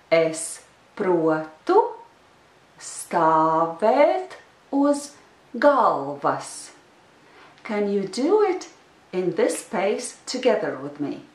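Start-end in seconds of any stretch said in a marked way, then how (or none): 0.1-6.7 very slow pace, slowed pronunciation. Teaching a phrase for the learner to repeat, the speaker pronounces it slower. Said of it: "I will pronounce it a little slower".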